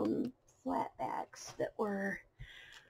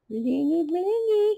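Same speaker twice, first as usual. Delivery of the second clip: excited; 7 semitones higher, 8 dB louder, slower than usual. Real, not acted. Admiring shiny gems.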